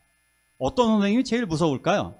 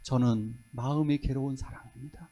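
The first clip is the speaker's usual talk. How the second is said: soft, humble, lowly plea; 5 semitones lower, 7 dB quieter than usual. Retold or imitated. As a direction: lower yourself as you say it. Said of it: "자기를 최대한 낮추잖아요".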